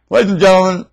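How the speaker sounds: lightly put-on TV presenter voice; weather lady. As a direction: announce it like a chirpy forecaster. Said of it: "I'm like the weather lady".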